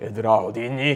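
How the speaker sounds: weighty, solemn, deep, heavy, god-like voice. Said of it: "묵직한 목소리 하면서".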